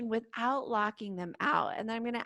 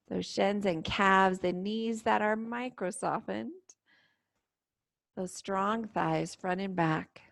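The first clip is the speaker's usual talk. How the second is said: calm, unhurried meditation guide with long pauses; guided meditation. Real, not acted. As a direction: gently lead them into stillness and breath. Leads guided standing meditation.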